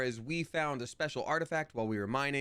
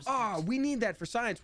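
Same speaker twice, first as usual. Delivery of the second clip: blunt quote; 12 semitones higher, 4 dB louder than usual. Retold or imitated. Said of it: "That's why I didn't lead with".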